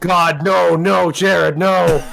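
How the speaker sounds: comic horrified refusal; dismayed protest. Real, not acted. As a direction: plead loudly against it. Comic horror at Jared in chat.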